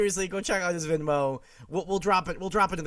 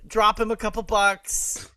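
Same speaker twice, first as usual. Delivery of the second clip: hype pitch; 6 semitones higher, 7 dB louder, slower than usual. Acted. Hyping donations.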